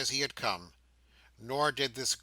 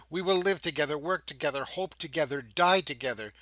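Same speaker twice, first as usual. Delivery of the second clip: louder, higher fervent vow; rising fervour; 3 semitones higher, 5 dB louder, faster than usual. Acted. Lilian vowing to Meg, louder rising fervour. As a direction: swell up with feeling.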